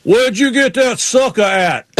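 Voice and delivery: high, slow imitated Southern question; Ward Burton. Driver butting into live interview about a popsicle, mimicked high drawl. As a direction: mimic a drawn-out, high-pitched country driver. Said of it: "He goes".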